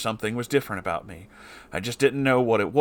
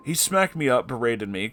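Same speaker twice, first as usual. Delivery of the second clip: ordinary delivery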